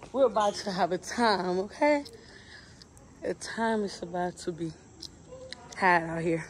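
talking with food in mouth; chewing while talking. Real, not acted. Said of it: "Excuse my chewing noise".

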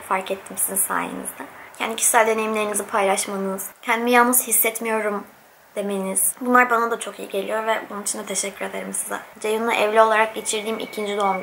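speaking between bites; talking while chewing. Real, not acted. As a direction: mouth partly full of food. Seen 2: bite taken off fork just before; talks while chewing, head lowered.

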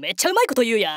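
sudden native Kansai intonation; offhand Kansai retort; Kansai dialect. Acted. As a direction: slip into fluent Kansai-ben. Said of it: "しかも関西弁".

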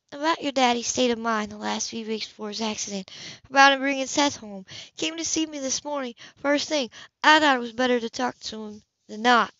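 a hint of a caring older woman, gently worried; lightly voiced older woman. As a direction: speak to him like a fond neighbour breaking bad news. Woman character voiced in story.

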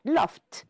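"loft" in one syllable, ending on T. Shown as a demonstration. Teacher confirming just one syllable, "loft" ending in T. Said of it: "is heard T".

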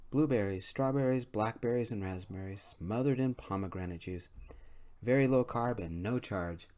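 bright, bubbly waitress pitching dessert; cheerful waitress. Acted. Waitress voiced serving dessert.

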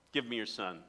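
low, composed request; mock unruffled prophet; all calm. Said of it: "he's all calm".

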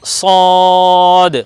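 সদ unlike thin seen or airy sheen; long level o in সদ before a final d; distinct saad. Shown as a demonstration. Teacher sets it apart from seen, long distinct সদ. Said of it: "সিনের মতো হবে না".

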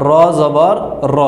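র with a rounded vowel, no aa; careful demo of Arabic র; Arabic pronunciation. Shown as a demonstration. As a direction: say র as the bare letter, not রা. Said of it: "আরবিতে উচ্চারণ করব".

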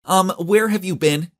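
high, slow, accusing question; indignant, drawn-out scolding; glaring reproach. A narrator's reading. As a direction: demand it slowly in a high voice. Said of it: "she glared at me".

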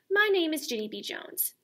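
put-on little girl voice. Reading as child narrator.

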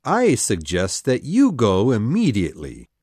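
a low, stern order with a hint of a scream; mild mock scream. A narrator's reading. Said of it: "screamed Hook".

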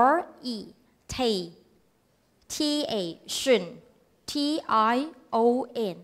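"in, ter, pre, ta, tion", each followed by its letters; syllable by syllable. Shown as a demonstration. Teacher showing how to spell words, syllable by syllable. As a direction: spell INTERPRETATION slowly with long pauses between parts. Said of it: "ค่อยๆไปทีละพยางค์".

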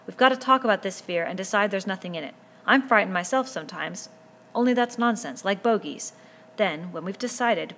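put-on a boy leader speaking up firmly to a noisy crowd; Ralph addressing the boys. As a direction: raise your voice to the assembly and hold their attention. Ralph's closing speech.

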